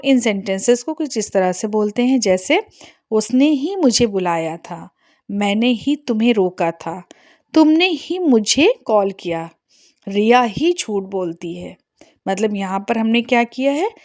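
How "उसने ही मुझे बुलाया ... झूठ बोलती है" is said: slow, ही weighted after each subject; stress on the subject. Shown as a demonstration. Teacher modelling subject stress for students. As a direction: lean on उसने ही, मैंने ही, तुमने ही, रिया ही. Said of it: "subject पर जोर देकर बोलना होता है".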